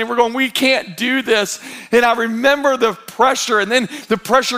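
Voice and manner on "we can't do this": higher, slow mock wail; mildly hammed-up helpless plea; retold freaked-out crying. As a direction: act out a despairing new parent. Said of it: "we're all freaked out, and we're crying".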